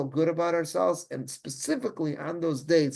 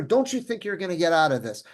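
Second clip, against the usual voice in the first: mild mock rebuke; retold lashing back; 3 semitones higher, 4 dB louder than usual. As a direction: imitate a scolding with a touch of force. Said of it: "Mordecai just lashes back at her".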